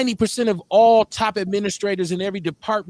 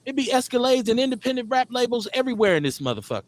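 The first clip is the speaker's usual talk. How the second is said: animated, higher-pitched insistence; rally the listeners, getting worked up; fired up; 3 semitones higher than usual. Real, not acted. Host urging a lawsuit to chat room, fired up. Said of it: "I get fired up".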